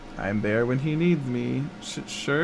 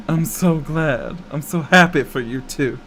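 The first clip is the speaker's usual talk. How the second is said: sarcastic. Acted. Sarcastic congratulations to rival.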